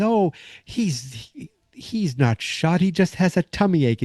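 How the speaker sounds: mock reassurance. Troop leader reassures frightened kids.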